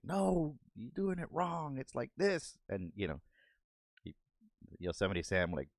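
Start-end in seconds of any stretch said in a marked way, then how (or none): 0.0-2.6 impatient villain voice. Retold or imitated. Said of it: "and it's like".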